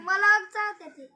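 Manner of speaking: loud, slow, emphatic complaint. Real, not acted. Child tells mother the cat bites her, loud and slow. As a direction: insist loudly that it bites.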